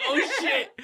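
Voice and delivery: high, giggling "Oh, shit" under the breath; laughing disbelief. Retold or imitated. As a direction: let "Oh, shit" crack into laughter. Reacting to sounds from couple.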